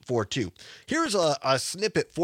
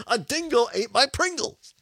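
put-on light Aussie accent, raised pitch; Australian accent; 8 semitones higher, 4 dB louder than usual. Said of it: "Especially in an Australian accent".

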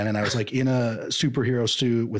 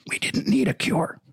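strained, higher, breaking politician rasp; 8 semitones higher than usual. Acted. Senator insisting to his questioner, high strained R F K voice. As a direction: strangle the words as they rise. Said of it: "your R F K impression".

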